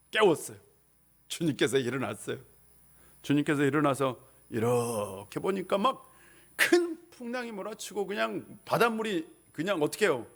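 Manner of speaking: ordinary talk, nothing marked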